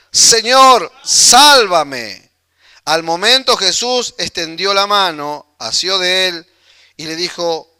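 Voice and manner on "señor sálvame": loud, acted plea for rescue; grito de auxilio. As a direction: cry out as a man going under. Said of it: "dio voces diciendo". (grito fuerte pidiendo socorro)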